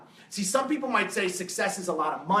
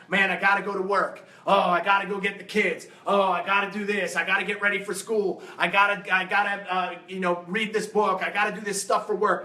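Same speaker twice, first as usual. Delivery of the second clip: grumbling complainer. Retold or imitated. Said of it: "you could be saying this".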